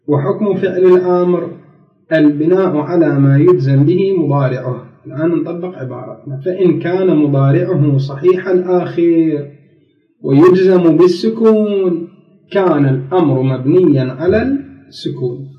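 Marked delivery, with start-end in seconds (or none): 0.1-4.9 measured formal Arabic read-out; formal text reading. Real, not acted. Teacher rereads the imperative rule to students, formal reading. Reads the grammar book aloud. 6.4-15.5 slow formal Arabic with drawn-out phrase endings; formal text reading. Real, not acted. Teacher reads the book's condition to students, formal reading. Reads the grammar book aloud.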